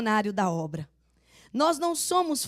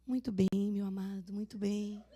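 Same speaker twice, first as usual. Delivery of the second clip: speaking very softly; 3 semitones lower, 9 dB quieter than usual. Retold or imitated. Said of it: "eu falo bem baixinho".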